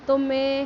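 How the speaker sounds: मैं with the vowel pushed through the nose; nasal vowel demo. Shown as a demonstration. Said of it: "जैसे मैं". (मैं को नाक से बोलें)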